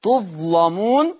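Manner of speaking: تظلمون said slowly with a thick, heavy lam; heavy lam, drawn out. Shown as a demonstration. Sheikh demonstrating the heavy lam to his students. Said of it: "تغليظ اللام".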